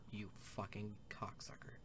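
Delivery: slow hissed curse; slow whispered insult. Real, not acted. Player cursing a guard under the breath.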